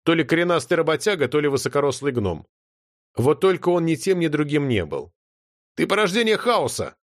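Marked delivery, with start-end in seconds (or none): 5.8-7.0 higher, scornful exclaim; contemptuous exclamation. A narrator's reading. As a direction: spit out the insult with contempt. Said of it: "воскликнула Нотти с презрением". (с презрением)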